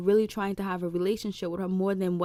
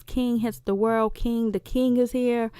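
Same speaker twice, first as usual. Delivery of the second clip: excited dad; 3 semitones higher, 5 dB louder than usual. Retold or imitated. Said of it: "He's all excited".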